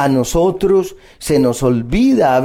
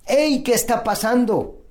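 higher-pitched cry of protest to God; mild mock shout; 6 semitones higher than usual. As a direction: call out in complaint without real volume. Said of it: "le grito y le digo".

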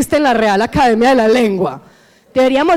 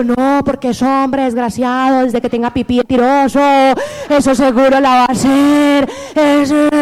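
mock wound yelling. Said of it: "La herida te está gritando".

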